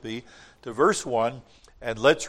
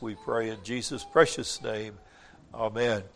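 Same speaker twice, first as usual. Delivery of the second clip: prayer. Acted. Pastor leads a prayer.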